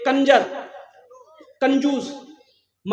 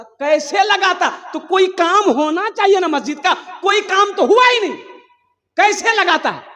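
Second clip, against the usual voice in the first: exasperated demand; 7 semitones higher, 4 dB louder than usual. Acted. Villagers demand an answer loudly.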